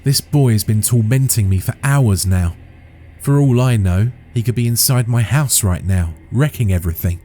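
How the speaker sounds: high, heated and upset; angry. Acted. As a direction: rant at him in fury. Angry rant at friend.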